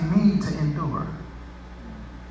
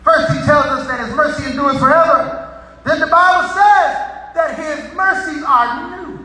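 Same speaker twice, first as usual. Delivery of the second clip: preaching; 5 semitones higher, 3 dB louder than usual. Real, not acted. Preaches scripture at raised force.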